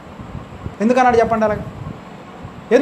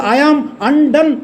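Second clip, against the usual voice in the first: slow emphasis; 3 semitones higher, much slower than usual. Shown as a demonstration. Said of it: "అనే మాట వాడతాడు".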